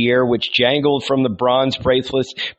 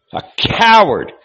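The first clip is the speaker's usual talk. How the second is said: shouted insult; 9 semitones higher, 5 dB louder than usual. A narrator's reading. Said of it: "he flung at him with scorn".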